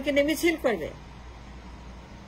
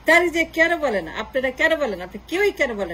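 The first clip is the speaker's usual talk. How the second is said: indignant demand; faster than usual. Real, not acted. Repeats demand, louder and faster.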